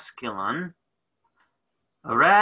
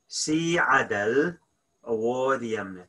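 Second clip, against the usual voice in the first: broken into two slow chunks; slow teaching repeat; split slow repeat. Shown as a demonstration. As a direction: pause after Si adal, then wad yamna. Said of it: "teacher repeats in parts".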